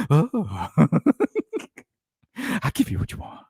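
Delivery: high squawky penguin voice with laughs; squawky bouncy penguin. Pretend. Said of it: "That's my penguin impression".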